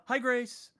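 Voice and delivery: high, loud cartoon hello; high-pitched roll-call greeting; SpongeBob. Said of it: "I'm gonna pull a SpongeBob".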